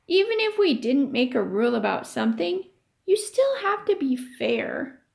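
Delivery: lively read-aloud voice for the class; story reading. A narrator's reading. Teacher reading a chapter to her class, storytelling voice.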